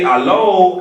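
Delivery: "Hello" thrown up high and loud, then falling; high call hello. Shown as a demonstration. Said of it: "So I, I say".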